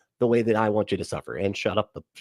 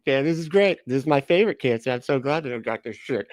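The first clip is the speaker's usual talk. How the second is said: sarcastic cheer; 3 semitones higher than usual. Retold or imitated. Mock cheerful cancer patient.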